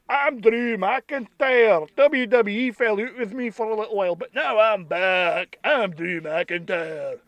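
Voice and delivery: put-on slow, drawn-out Scottish accent; put-on Scottish wrestler promo; Drew McIntyre. Wrestler announcing he is back, mock Scottish accent. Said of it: "should be a much better Scottish accent".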